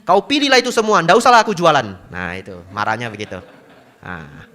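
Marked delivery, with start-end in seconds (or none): 0.0-2.1 high, loud Medan scolding; angry market seller. Retold or imitated. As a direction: snap at the picky buyer. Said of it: "Tahu ndak marahnya apa". (penjual cabai marah dengan logat Medan)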